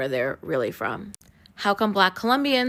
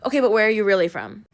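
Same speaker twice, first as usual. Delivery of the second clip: fast, louder mocking question; mock interrogator; 2 semitones higher, 5 dB louder, faster than usual. Mocking the people who keep asking Black Americans. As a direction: mimic the pushy asker, brisk and loud. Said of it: "you ask them".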